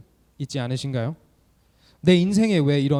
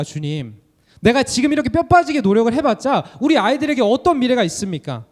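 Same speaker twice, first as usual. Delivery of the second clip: anguished lament; 3 semitones higher than usual. Pretend. Servants' imagined lament to God.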